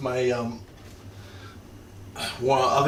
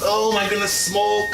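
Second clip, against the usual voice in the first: surprised; 6 semitones higher, 3 dB louder, slower than usual. Real, not acted. Smoke from the oven.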